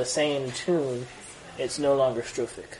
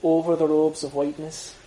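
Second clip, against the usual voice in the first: Irish accent; 4 dB louder than usual. Shown as a demonstration. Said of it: "probably your best line".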